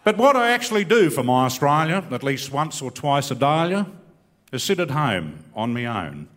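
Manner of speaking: rhymed comic verse, hitting each rhyme; bush poem recitation. Acted. Comic poet reciting patriotic verse to the crowd, rhythmic. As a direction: deliver it like a proud bush poet, landing the punchline.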